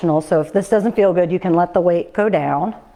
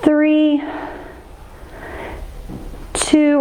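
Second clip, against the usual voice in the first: rising countdown; 6 semitones higher than usual. Real, not acted. Coach counting down.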